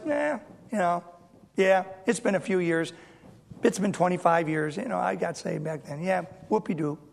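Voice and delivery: mock indifferent, trailing soft; sarcastic whoopee-doo, quiet and bored; bored shrug. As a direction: shrug it off like it's nothing. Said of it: "It shouldn't be like that".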